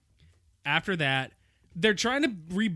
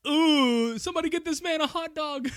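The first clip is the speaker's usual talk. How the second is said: high squeaked plea, louder at first; mock choking man; 10 semitones higher, 4 dB louder than usual. Basketball choking on a hot dog, high squeaky plea. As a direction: strain it out high like you're choking. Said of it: "and he's like".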